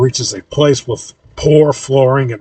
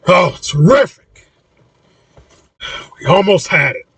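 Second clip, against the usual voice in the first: screamed exasperation; 6 semitones higher than usual. A narrator's reading. Maverna seeing the code is lost, exasperated scream. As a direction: cry out in mock-scream frustration. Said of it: "and Maverna screams".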